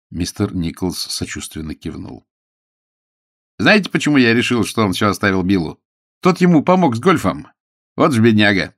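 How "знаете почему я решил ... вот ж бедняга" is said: lightly acted, animated lawyer; a touch of lively gossip; chatty lawyer. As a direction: confide it with lively emphasis.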